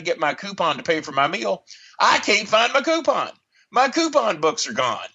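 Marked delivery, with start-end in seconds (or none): 2.0-5.1 retold outraged dismay. Discovers coupon book gone.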